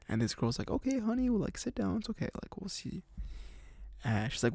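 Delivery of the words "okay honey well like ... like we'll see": put-on high, sugary voice for the bar girl; a hint of a motherly barmaid; sweet bar girl. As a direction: coo it like a kind waitress.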